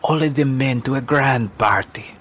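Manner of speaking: lightly voiced storyteller to a child; storytelling woman. Storyteller woman reads to girl.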